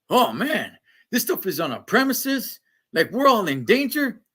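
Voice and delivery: hammed-up group panic; mock freaking out. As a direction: whine the alarm mockingly. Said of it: "they're all freaking out".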